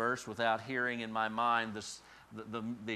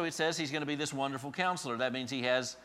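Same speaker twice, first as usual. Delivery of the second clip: normal talking voice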